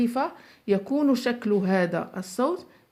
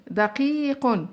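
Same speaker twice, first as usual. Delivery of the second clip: slow dictation; 3 semitones higher, much slower than usual. Shown as a demonstration. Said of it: "من يعطيني كلمة؟".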